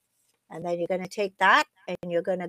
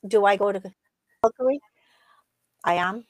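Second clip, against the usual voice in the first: breaking up on a bad line; words dropping out, choppy connection; choppy cut off endings; faster than usual. Real, not acted. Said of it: "You're cutting out".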